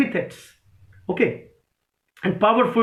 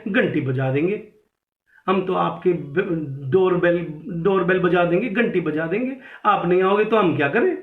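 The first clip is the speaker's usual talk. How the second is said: lilting Jaipur accent, phrases rising at the end; 3 semitones lower than usual. Shown as a demonstration. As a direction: lilt it like someone from Jaipur. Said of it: "एक लिल्टिंग voice होती है". (जयपुरी लहजे में, लहराती आवाज़)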